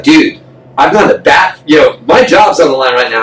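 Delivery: half-acted panicked plea; retold anxious shout. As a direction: shout it like a man whose job is at risk. Client pleading, job on line.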